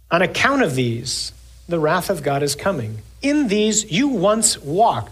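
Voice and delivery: measured, solemn scripture reading. Acted. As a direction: read it out to the congregation. Reads scripture in sermon.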